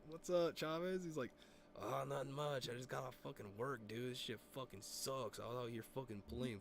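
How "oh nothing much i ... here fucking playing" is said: softer, lightly imitated buddy's accent; Chavez's way of talking. Buddy complaining about work on the phone, light accent imitation. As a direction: grumble lightly in the friend's accent. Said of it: "Chavez literally talks like that".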